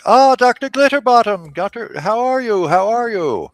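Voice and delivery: high, bright friendly greeting; cheerful gnome voice. Acted. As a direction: greet an old friend with glee.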